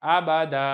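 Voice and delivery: "आबादा" ending on open long aa; waqf with alif. Shown as a demonstration. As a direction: stop on "आबादा" without any n. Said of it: "पढ़ के सुनाया था".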